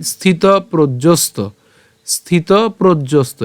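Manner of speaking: "স্থিত প্রজ্জস্ত" slowly, word by word; slow model pronunciation. Shown as a demonstration. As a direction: draw out "স্থিত", then land on "প্রজ্জস্ত". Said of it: "এখানে আমরা উচ্চারণটা কেমন হচ্ছে". ("স্থিত প্রজ্জস্ত" ধীরে স্পষ্ট করে)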